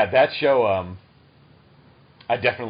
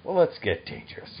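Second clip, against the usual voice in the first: raised-pitch heroic catchphrase; Darkwing Duck catchphrase; 8 semitones higher than usual. Retold or imitated. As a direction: call it out like the cartoon hero. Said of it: "You always called up the".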